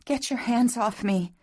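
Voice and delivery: high, upset female protest; quavering. A narrator's reading. Woman tells lover to let go, quavering. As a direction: push him off in a high, tremulous voice. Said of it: "she quavered".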